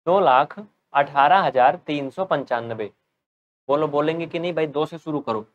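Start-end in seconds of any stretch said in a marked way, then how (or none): 0.1-2.9 slow dictation pace; slow careful reading. Shown as a demonstration. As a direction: read the number out slowly, word by word. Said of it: "Indian number system में बोलेंगे तो क्या पढ़ेंगे?".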